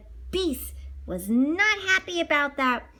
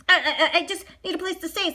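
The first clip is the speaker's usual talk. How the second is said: timidly; 5 semitones higher than usual. Acted. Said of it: "said Maurice timidly".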